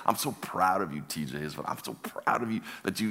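softly choked-up pride, retold; tearing up. Older pastor proud of TJ, mildly tearful. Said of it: "I'm kinda tearing up".

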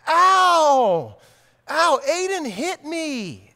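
high wailing little boy, mock tearful; crying child. Little brother wailing to dad from the table, high and tearful. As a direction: wail like a hurt four-year-old.

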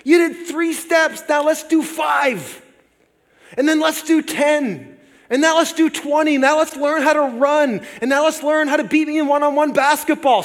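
put-on proud father hyping up his little boy; encouraging dad. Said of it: "I picked him up and I held him up and I go".

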